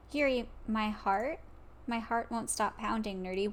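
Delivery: a hint of a flustered Yuri; lightly voiced Yuri. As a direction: read it like a nervous confession, hushed. Voicing Yuri's confession lines.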